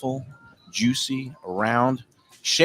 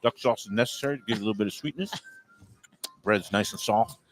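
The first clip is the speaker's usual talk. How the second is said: Keith Lee impression; 2 semitones lower, faster than usual. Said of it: "I'm gonna do my Keith Lee".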